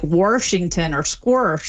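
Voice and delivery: "Washington" as Warshington with an intrusive R, slowly; intrusive R demo. Shown as a demonstration. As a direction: say "squirsh" for squash, with an added R. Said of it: "that's when you say".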